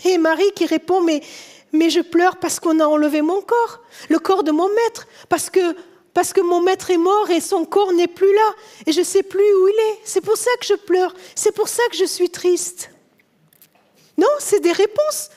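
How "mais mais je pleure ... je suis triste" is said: acted upset, pitched higher; lightly acted, high-pitched aggrieved mourner; distressed protest. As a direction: plead your case as if it were obvious. Acts grieving Mary justifying her tears.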